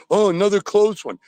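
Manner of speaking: high mocking singsong; mocking fans. Caller mimicking resigned fans, high mocking tone. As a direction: sneer at the excuse. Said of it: "I'm sick of being embarrassed".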